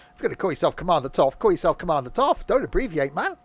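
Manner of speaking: playful telling-off; mock exasperated. Real, not acted. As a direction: scold him in jest. Mock-scolding a player's username.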